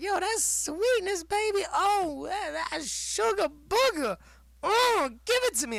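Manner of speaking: crave it in a cartoon high voice; high goofy critic begging for sugar; imitating the critic. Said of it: "he's like".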